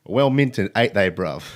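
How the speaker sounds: a light put-on London geezer accent; tongue-in-cheek Cockney, barely put on; mock Cockney slang. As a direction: lightly toss off the Cockney like a borrowed phrase. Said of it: "This language certainly does have its charms".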